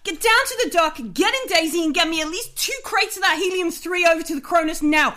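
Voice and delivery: shouted orders. Acted. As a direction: order the crew about forcefully. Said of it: "she just shouts at you".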